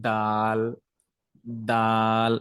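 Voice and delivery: "দাল" with soft d, tongue on the gum, vowel held; long monotone Arabic "দাল". Shown as a demonstration. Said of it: "এটাকে একটু নরম করে জিহ্বাটাকে".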